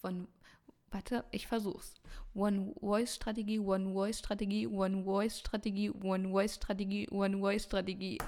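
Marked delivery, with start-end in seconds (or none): 2.3-8.2 tongue twister. Shown as a demonstration. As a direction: rattle it off five times. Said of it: "Sag das mal fünfmal schnell hintereinander".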